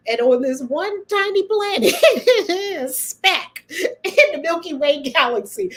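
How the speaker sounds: amused wonder; laughing. Real, not acted. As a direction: giggle through the cosmic scale. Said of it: "my funny bone is on tonight".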